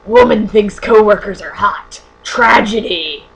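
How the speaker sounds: loud, slow, sensational headline voice; mock newspaper headline. Mocking the ethics book's newspaper test, sarcastic headline. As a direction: proclaim it slowly, hammed-up like scandalous news. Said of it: "what would the newspaper article be like".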